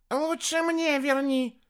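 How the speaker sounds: high, loud, drawn-out wail; wailing yell. A narrator's reading. Хелений begs to be turned back, wailing yell. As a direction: yell it high, stretching the words. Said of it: "завопил Хелений".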